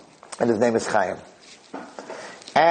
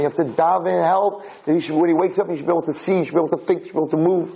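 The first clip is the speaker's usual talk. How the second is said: higher-pitched, insistent imitation of a begging father; urgent pleading; 6 semitones higher than usual. Father begs everyone to pray for recovery, urgent pleading. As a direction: rattle off the hopes in a raised, urgent chant.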